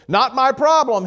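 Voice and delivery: high, loud brush-off; dismissive fisherman. Retold or imitated. Lazy fisherman shrugging off his partner, mock dismissive. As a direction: toss it off like it's not your concern. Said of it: "he said".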